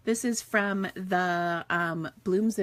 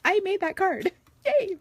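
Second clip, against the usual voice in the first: higher, louder, a gleeful little cheer; excited happy dance; 11 semitones higher, 5 dB louder than usual. Retold or imitated. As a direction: squeal like you just finished a card you love. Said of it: "doing your happy dance and you're all excited".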